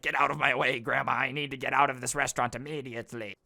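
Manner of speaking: fast, curt mock demand; a hint of a rushed entitled customer; mock impatient Karen. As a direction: brush the old lady aside in a hurry. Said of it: "you're the one being like".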